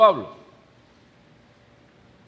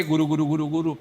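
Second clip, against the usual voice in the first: lightly imitated pigeon cooing; quick, understated "guru guru" of a pigeon; arrullo de paloma; 5 dB quieter, much faster than usual. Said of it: "Ya uno la oye". (imitando apenas el arrullo de una paloma)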